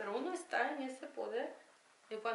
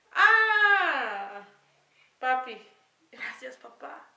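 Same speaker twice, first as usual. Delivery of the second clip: crying out; 2 semitones higher, 15 dB louder, much slower than usual. Retold or imitated. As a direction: let the cry burst out, then thank him. Crying thanks to dead father. (grito de llanto, agudo y fuerte, dando gracias a papá)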